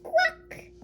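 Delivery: high, piercing quack; duck quack. Pretend. Duck interrupting a quarrel, high quack. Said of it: "stop quacking".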